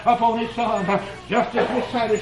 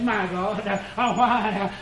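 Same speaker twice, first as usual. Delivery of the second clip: hushed take; 2 semitones lower, 5 dB quieter, slower than usual. Acted. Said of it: "but here he says".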